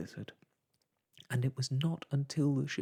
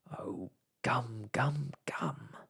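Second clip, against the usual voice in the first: groan; slower than usual. A narrator's reading. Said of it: "he groaned".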